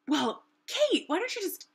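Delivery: high-pitched imitation of a friend; Lonnie. Friend suggesting something at breakfast, in a high mock voice. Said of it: "mock me for saying this this way".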